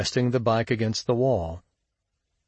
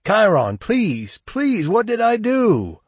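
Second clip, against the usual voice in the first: very high, loud, wailing plea; desperate imploring; 12 semitones higher, 5 dB louder, slower than usual. A narrator's reading. Shug crying on his knees to Chiron, imploring. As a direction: beg for your life, voice climbing. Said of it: "he implored".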